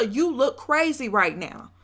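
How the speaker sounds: firm projection short of a shout; full voice. Shown as a demonstration. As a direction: say it with your chest, without hollering. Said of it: "tell her with your full voice".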